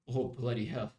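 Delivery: put-on a brief, muttered British-accented exclamation. Streamer accidentally mimicking the UK, British accent. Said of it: "mocking everybody in the U K".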